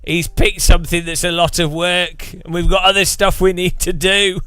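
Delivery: lightly voiced worried employees; mock dismayed dev team. Dev team handed a lot of work, lightly acted dismay. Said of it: "then the dev team are like".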